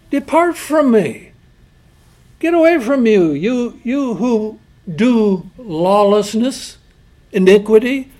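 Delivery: slow, stern voice of judgment; God's stern, slow dismissal; stern rejection. Retold or imitated. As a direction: send them away, severe and final. God rejecting the lawless.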